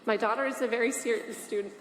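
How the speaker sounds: struggling to get the words out through tears; real tears welling up mid-sentence; holding back tears. Real, not acted. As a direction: voice catching as tears come. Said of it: "I don't know why I'm crying that much".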